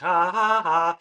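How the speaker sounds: loud, breathless laugh. Acted. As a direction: laugh it out, startled. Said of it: "Blue feels like".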